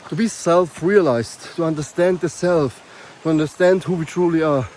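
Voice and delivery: winded from the uphill climb; talking while catching breath; short of breath. Real, not acted. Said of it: "Sorry, a little bit short of breath".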